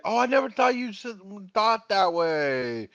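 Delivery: mock hurt friend. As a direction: play the wounded pal, lightly. Voices the hurt friend texting.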